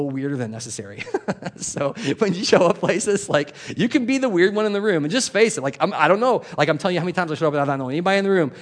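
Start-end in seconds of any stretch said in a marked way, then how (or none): 1.6-8.5 higher and louder, preaching with fire; rousing preaching. Real, not acted. Preacher urging the congregation to be the weird one, rousing. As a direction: lift the room with it.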